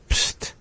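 plain hissed pst, no throat pop in front; pst without the pop. Shown as a demonstration. Teacher simplifies the word for practice, pst without pop. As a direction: drop the popped start, just pst. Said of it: "if you take away the".

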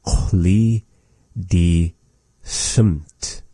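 Chloe, die, Sumt, each set apart by a pause; word by word. Shown as a demonstration. Teacher breaking the phrase up for learners, "Chloe die Sumt" word by word. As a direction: say "Chloe die Sumt" slowly in separate pieces.

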